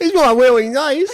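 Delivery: high, cutesy uwu voice; high-pitched cutesy complaint. Pretend. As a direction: pout it out, sweetly sulking. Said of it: "you start talking that way".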